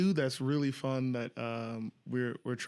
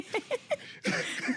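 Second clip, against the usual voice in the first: burst of laughter. Real, not acted. Laughing at own accent demo.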